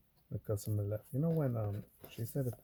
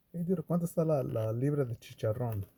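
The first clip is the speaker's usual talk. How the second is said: louder, higher call in Spanish; joking Spanish order; 4 semitones higher, 6 dB louder than usual. Retold or imitated. Speaker ordering pork rinds from the cashier, loud and playful. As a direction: call it out like ordering at a Mexican counter.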